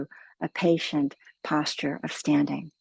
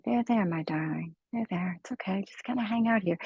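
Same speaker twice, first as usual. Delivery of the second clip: gentle soothing. Pretend. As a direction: soothe yourself like calming a child. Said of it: "begin to very gently say".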